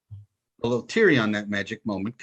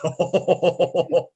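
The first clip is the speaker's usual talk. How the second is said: knowing oh; 5 semitones higher, 3 dB louder than usual. Retold or imitated. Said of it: "that look he gets on his face".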